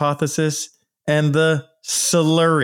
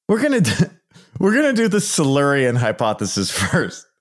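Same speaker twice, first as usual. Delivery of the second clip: laughing; 3 semitones higher, faster than usual. Real, not acted. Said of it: "I'm laughing".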